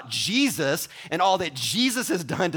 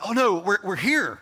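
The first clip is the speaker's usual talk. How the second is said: groaning shopper at the door, higher and louder; mock dread; 5 semitones higher, 4 dB louder than usual. Preacher mocks a shopper dreading Costco, mock dread. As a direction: play a reluctant shopper arriving.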